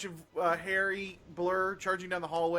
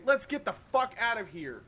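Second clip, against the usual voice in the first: raised-pitch, mildly projected call; acted yell back; 5 semitones higher, 4 dB louder than usual. Player calls back to friends, mild acted yell. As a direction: call back to friends, only half yelling. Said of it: "I yell back towards my".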